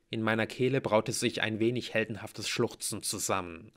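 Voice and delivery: usual speaking voice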